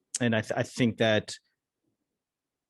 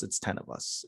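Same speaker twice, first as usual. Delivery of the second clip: whispered, much softer, as if for a tiny crowd; 3 semitones lower, 11 dB quieter than usual. Shown as a demonstration. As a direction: drop to a whisper for ten people. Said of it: "whatever the audience is".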